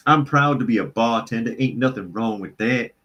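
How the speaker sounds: lightly put-on Southern drawl; mock Southern drawl. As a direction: quote it with a folksy Southern twang. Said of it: "accused of slipping into Southern drawl".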